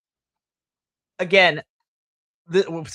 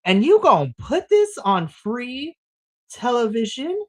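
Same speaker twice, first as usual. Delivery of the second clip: incredulous; 5 semitones higher, 5 dB louder than usual. Retold or imitated. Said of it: "I'm just sitting here and I'm like".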